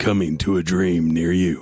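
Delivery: slow, dramatic movie trailer announcer voice. Topping the other speaker's trailer line: movie trailer announcer voice. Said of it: "the guy that does, uh, movie theater trailers".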